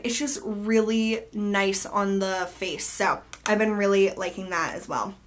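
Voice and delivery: stuffy nose from allergies; blocked-nose nasal voice. Real, not acted. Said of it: "I sound like a nasally mess".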